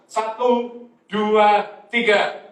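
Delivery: firm, punched count for the congregation; loud count-in. Shown as a demonstration. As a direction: lead a group to read aloud. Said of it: "dengan suara keras".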